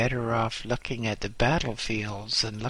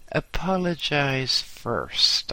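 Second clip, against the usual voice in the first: fierce command; 3 semitones higher, slower than usual. Acted. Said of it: "I said fiercely".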